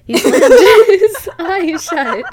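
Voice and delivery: reading while cracking up; laughing through. Real, not acted. Reader breaking into laughter mid-sentence, laughing.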